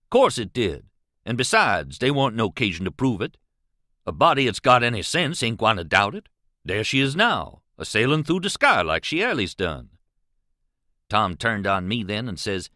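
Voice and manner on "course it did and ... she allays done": lightly voiced companion, confident and emphatic; Jim. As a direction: argue with simple certainty in a hint of dialect.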